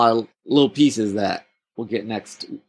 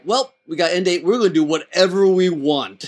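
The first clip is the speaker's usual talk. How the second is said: emboldened writers; 5 semitones higher than usual. Retold or imitated. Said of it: "this is when the writers decided, like".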